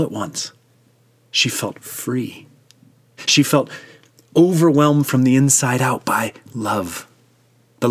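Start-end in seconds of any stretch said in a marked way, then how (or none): 0.0-2.5 a quiet, awed whisper of release; hushed whisper. A narrator's reading. Narrator whispering the girl's moment of freedom. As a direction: breathe it out in a soft whisper.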